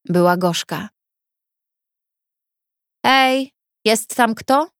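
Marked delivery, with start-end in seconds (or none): 3.0-4.7 distant calling out. Acted. Voice calls through the wall.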